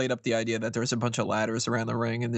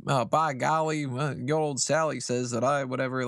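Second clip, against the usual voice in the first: put-on old prospector. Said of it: "Jamie Noble with the whole".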